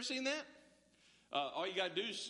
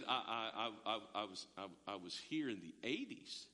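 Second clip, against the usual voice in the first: put-on sheepish old alum; 10 semitones lower, 4 dB quieter than usual. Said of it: "And I said".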